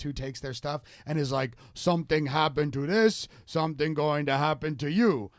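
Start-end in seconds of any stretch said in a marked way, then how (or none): 1.7-5.3 lightly put-on Spanish accent; a hint of a fake Spanish accent. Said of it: "trying to do the Spanish accent".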